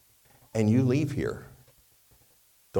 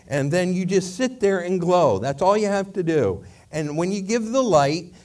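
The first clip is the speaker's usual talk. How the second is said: louder, higher protest; exasperated; 4 semitones higher, 5 dB louder than usual. Acted. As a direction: argue with a stubborn little candle, raised voice. Acted exasperated argument with the candle.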